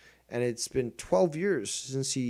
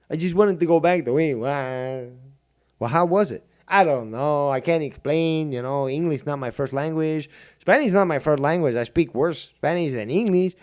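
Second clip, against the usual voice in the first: mocking dumb viewer; 4 semitones higher, 9 dB louder than usual.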